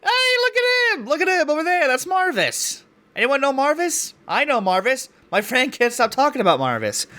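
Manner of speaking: very high-pitched teasing shout-out; mock excited heckler. Teasing a friend about Marvis, mock excited and high. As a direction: call out in a high, silly put-on voice.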